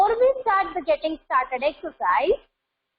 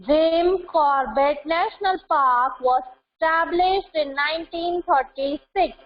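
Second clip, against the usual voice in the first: dictation reading. Acted. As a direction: read it out carefully so pupils can follow. Reads listening text aloud.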